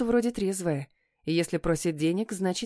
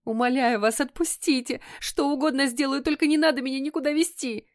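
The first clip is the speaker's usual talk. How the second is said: higher, pleading through tears; sobbing plea; 8 semitones higher than usual. A narrator's reading. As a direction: beg him as if breaking down. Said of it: "и разрыдалась".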